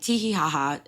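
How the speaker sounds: sarcastic fake tee hee laugh; mock giggle. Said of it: "I'm like".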